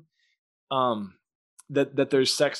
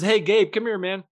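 higher, worked-up calling over; animated God; 6 semitones higher than usual. Acted. God urgently calling Gabriel to look at Earth, animated. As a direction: call a buddy over, pitched up.

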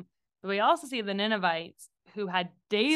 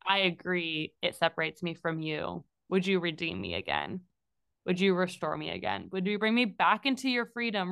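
sincere prayer; 2 semitones lower than usual. Retold or imitated. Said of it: "what God wants us to say is".

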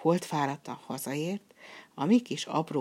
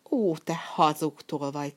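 angry shout. Acted. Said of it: "kiáltotta".

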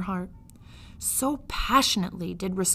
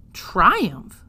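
louder, wondering repeat; loud amazed echo; 8 dB louder than usual. Acted. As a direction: shout the word in wonder. Midge repeats the word amazed.

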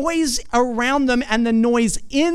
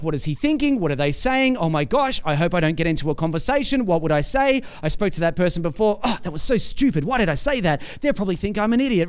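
fast, lower, nervous rambling; anxious inner voice; 4 semitones lower, faster than usual. Retold or imitated. Churchgoer panicking inside at a crowded service, fast nervous inner monologue. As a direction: rush the worried thoughts of someone panicking inside.

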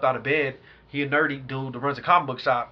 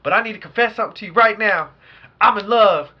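put-on pleading girlfriend; 7 semitones higher, 7 dB louder than usual. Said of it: "She's like".

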